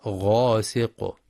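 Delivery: غاسق with a full, heavy ghain, slowly. Shown as a demonstration. Teacher models the correct heavy ghain. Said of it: "وإنما غاسق".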